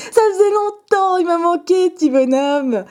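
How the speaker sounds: high, gleeful gushing; thrilled reunion squeal; gushing delight. Real, not acted. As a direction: coo over a long-lost favourite in a high voice. Gushing over a long-missed card.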